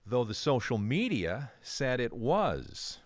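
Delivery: winded from running across the studio; out of breath. Real, not acted. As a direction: talk while catching your breath. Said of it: "I'm a little out of breath here".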